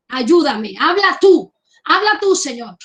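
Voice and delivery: urgent plea lifted to the Lord; fervent cry. Real, not acted. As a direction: cry out for God to speak. Preacher calls on God aloud.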